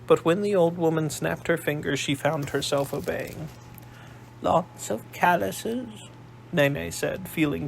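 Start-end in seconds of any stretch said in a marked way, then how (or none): 4.4-6.1 put-on slow, higher posh old lady voice; a shrewd old matriarch, sizing him up; old grandmother. Old Nene studies Darren in a slow, higher posh voice.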